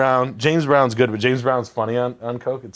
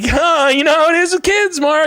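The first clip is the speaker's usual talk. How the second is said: mock sympathetic hosts; 4 dB louder than usual. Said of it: "And everybody's like".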